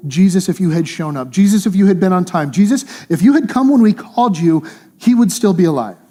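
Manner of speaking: pleading reproach, pitch climbing; acted, insistent "if only"; mild reproach. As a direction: voice their complaint to Jesus, building. Voicing the grieving people reproaching Jesus.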